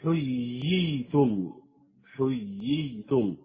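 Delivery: حييتم بفصل الياءين ببطء شديد; بيّن الياءين في حييتم; two ya sounds. Shown as a demonstration. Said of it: "التتابع في الياء". (إظهار الياءين المتتاليتين)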